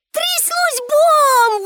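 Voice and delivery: very high, very slow exclamation; exclaiming. A narrator's reading. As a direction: burst it out gleefully. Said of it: "вигукнула Пепі".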